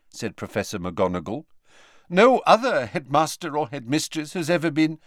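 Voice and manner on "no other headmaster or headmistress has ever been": measured, higher headmistress voice; brisk headmistress. Acted. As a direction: start a formal statement. McGonagall starts, Hagrid cuts in.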